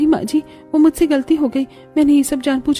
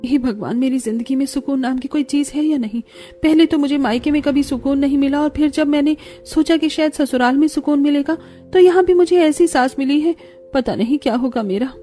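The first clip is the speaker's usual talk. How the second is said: higher-pitched acted self-pity; plaintive lament; 4 semitones higher than usual. Bride lamenting her married home alone, plaintive. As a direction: complain to God, building then sinking.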